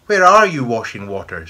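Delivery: shrieked demand from outside; screaming witch voice. A narrator's reading. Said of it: "screamed the voice".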